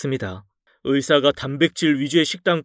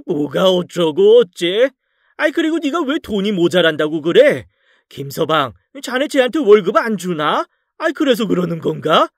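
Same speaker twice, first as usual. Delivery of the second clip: enraged father; 5 semitones higher than usual. Acted. Enraged father-in-law questions.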